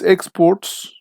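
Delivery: EXports, slow with first syllable stressed; noun stress. Shown as a demonstration. Teacher fills in the noun answer, stress on EX in "exports". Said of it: "because this is a noun".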